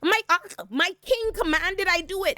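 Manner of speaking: squeaky panicked excuse; panicky high voice. Retold or imitated. Willem pleading to Tully, squeaky panicked excuse. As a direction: pitch way up in panic. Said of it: "And Willem is like".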